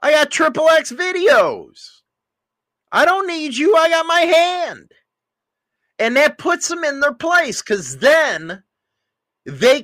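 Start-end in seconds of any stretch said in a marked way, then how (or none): 0.0-4.9 high, smug brush-off; a husband brushing off his wife's threat; cocky dismissal. Shown as a demonstration. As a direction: toss it off like you don't care. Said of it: "That's when you say".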